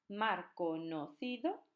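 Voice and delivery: slow syllable reading. Shown as a demonstration. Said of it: "sumarían ocho".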